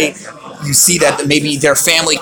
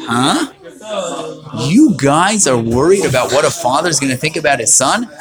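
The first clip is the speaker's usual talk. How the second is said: incredulous Yosef. Retold or imitated. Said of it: "Yosef says".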